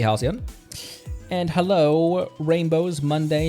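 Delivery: ordinary talk, nothing marked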